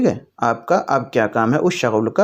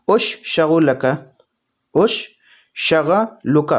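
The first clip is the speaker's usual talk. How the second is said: broken-down demo; much slower than usual. Shown as a demonstration. Teacher breaking the word apart for learners, slowly. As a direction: split "اش" and "شغلک" apart, dragging out each syllable. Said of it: "تو اس کو عربی میں بولیں گے".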